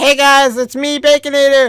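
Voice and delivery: put-on high, loud little kid voice.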